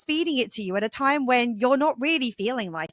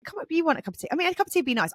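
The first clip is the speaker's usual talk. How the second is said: lightly acted pleading, pitched up; retold wheedling, trying to talk them round; a hint of a cajoling mum; coaxing mother; 5 semitones higher, much faster than usual. Mother coaxing reluctant son in retold dialogue.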